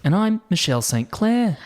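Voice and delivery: Australian anchor sign-on; Australian newsreader introducing herself; Australian newscaster. Acted. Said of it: "Australian newscaster voices".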